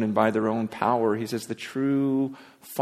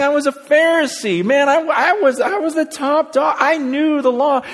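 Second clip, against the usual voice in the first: much higher and louder, a proud boast; bragging Paul; 14 semitones higher, 6 dB louder than usual. Retold or imitated. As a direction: crow about being the top dog. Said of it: "He's saying".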